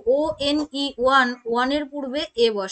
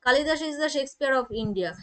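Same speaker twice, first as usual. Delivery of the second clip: slow example read; slower than usual. Shown as a demonstration. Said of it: "the এর ব্যবহার করি".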